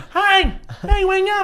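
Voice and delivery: coaxing awake. Acted. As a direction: gently rouse someone you're fond of. Waking a sleeping companion gently.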